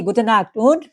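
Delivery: slow, careful teacher model; slow German demo. Shown as a demonstration. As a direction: say each word slowly for learners. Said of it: "এটা বলুন কি".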